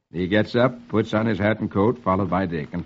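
measured comic-strip reading; old-time radio storyteller; story narration. A narrator's reading. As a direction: read the story out to a child.

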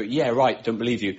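low, soft, sarcastic dismissal; dry and unconvinced, dropped low. Shown as a demonstration. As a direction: mutter it in sarcastic disbelief. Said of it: "to express sarcasm, like here".

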